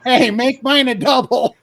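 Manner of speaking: loud, high laughing yell across the plane; a cheeky shout to the stewardess, loud and laughing; yelled joke. Retold or imitated. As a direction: call it out loud while laughing. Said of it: "So I yelled".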